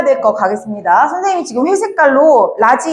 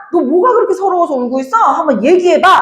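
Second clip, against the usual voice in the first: coaxing ask; 5 semitones higher than usual. Retold or imitated. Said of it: "서러움을 얘기해라".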